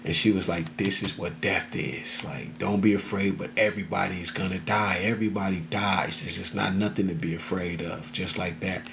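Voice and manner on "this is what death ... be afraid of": soothing. Retold or imitated. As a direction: soften it and take your time. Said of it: "it was just soothing".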